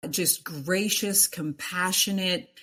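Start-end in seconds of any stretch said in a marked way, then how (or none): none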